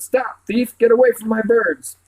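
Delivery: high, loud shout of stop thief. A narrator's reading. Birdcatcher shouting at thief at his cages, loud and high. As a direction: yell after the thief with pitch up. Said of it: "someone shouted".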